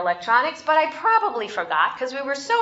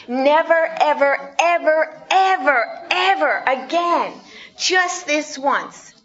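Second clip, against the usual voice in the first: put-on higher pleading kid voice, ever ever stretched out; promising child; 4 semitones higher than usual. Child bargaining with parent for a toy, high pleading.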